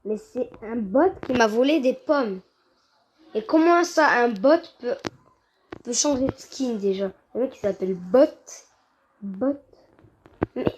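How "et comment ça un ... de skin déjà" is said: indignant outburst. Real, not acted. Outraged at bot.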